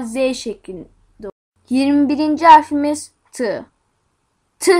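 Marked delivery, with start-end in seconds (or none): 4.6-4.7 T as a brief sound, not "te"; letter sound demo. Shown as a demonstration. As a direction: say T as a short "tı". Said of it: "diye okunur". (T'yi kısa "tı" sesiyle söyle)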